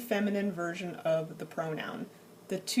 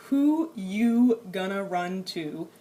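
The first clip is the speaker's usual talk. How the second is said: casual vernacular; 4 dB louder, slower than usual. Shown as a demonstration. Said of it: "this informal translation".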